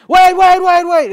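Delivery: a loud pretend God trying to shout over others. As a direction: yell to cut in over the noise. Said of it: "trying to talk over that".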